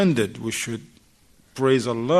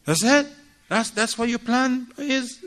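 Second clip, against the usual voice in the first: sarcastic; 9 semitones higher than usual. Retold or imitated. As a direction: taunt him with disbelief. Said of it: "She's not gonna talk to him".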